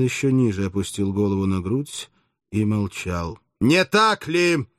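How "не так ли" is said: booming, drawn-out shout; thunderous voice. A narrator's reading. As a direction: thunder the question at him. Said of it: "закричал Спартак громовым голосом". (громовым голосом)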